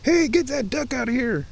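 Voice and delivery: very high-pitched mock order; hammed-up stern shooing; mock-stern command. Shown as a demonstration. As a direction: call it out high, feigning authority. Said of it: "in a loud, stern, but authoritative voice".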